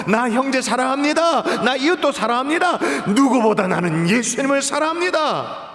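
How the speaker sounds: mildly swaggering, with a laugh; a touch of cocky pride; boastful. Retold or imitated. Preacher imitating Peter's proud boast, lightly laughing. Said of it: "아주 당당하게 우쭐우쭐거리며".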